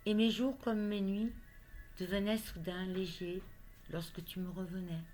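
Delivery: measured poetry reading with pauses between phrases; poem recitation. Acted. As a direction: recite a love poem line by line. Reads her love poem aloud.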